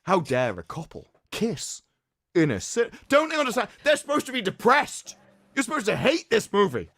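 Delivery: high, indignant mock complaint; mock outrage. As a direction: ham up the critic's whining. Mocking the critic's complaint.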